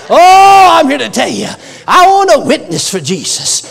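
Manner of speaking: excited testimony. Retold or imitated. Retold testimony builds to a shout.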